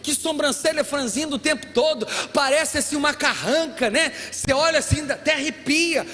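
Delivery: playful scolding, then a slowed "sai de mim"; mock exasperated plea. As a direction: tease the grumpy brother, half joking. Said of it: "que a gente diz pra uns aí".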